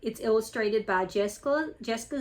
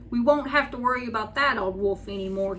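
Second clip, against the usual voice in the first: cheerfully; 4 dB louder than usual. Acted. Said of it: "he said cheerfully".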